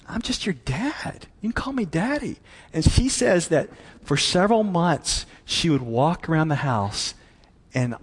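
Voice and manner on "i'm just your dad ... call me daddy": softly voiced, tender reassurance; gentle dad. Dad reassures his awed little girl, gently. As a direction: play a modest father, hushed at first.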